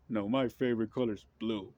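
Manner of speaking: lightly voiced stubborn counterpart; mock rival partisan. Mocking the other political side, lightly put-on. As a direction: answer back with a mild huff. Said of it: "is like saying".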